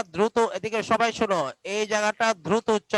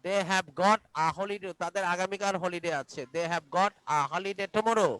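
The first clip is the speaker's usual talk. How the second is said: very slow, clear model sentence; slow model reading; 2 semitones lower, 5 dB quieter, slower than usual. Shown as a demonstration. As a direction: read it slowly for pupils to copy. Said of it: "teacher models answer slowly".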